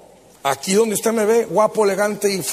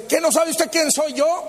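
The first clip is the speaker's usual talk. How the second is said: devil; 6 semitones higher than usual. Acted. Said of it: "se le acerca al diablo y dice".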